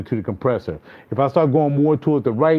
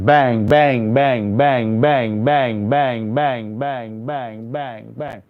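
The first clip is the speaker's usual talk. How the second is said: bangs squashed quieter and quieter; growing compression, loud to soft; much slower than usual. Shown as a demonstration. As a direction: let the compressor flatten each bang. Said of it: "see how I took my bang and it started to compress it".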